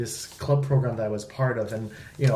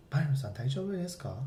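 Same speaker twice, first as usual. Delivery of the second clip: imitating sensei; 10 dB quieter, faster than usual. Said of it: "she's like".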